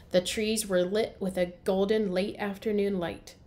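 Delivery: storybook read-aloud for young kids, characters voiced; story narration. A narrator's reading. Teacher reading to first graders, lively storybook narration.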